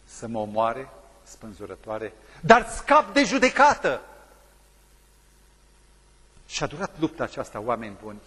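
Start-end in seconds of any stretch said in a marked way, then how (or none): 2.4-4.0 "dar scap de judecată" slow, high and loud; stress on judecată. Acted. Preacher driving home the prisoner's choice, slow and loud. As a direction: land "de judecată" hard and slow.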